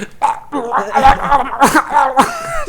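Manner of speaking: high, long comic death gurgle; drawn-out pretend choking gargle; mock dying gargle. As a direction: gargle out an overacted stage death. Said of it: "she gargles a bunch".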